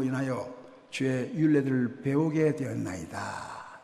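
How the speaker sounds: slow, solemn Bible reading; scripture reading. Real, not acted. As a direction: read the verse with reverence. Reads scripture. (성경 구절을 천천히 경건하게 낭독)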